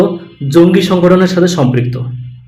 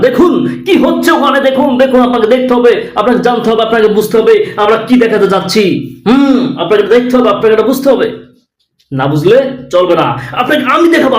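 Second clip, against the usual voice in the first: pitched-up, hammed-up sensational anchor; mock news reporter; 3 semitones higher than usual. Parody reporter forcing viewers to watch, hammed-up. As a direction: insist like a pushy TV reporter. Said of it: "Republic বাংলার সাংবাদিকের স্টাইলটা আমি দেখালাম".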